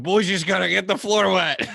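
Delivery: laughing self-quote. Retold or imitated. Retold drunk dancing quote.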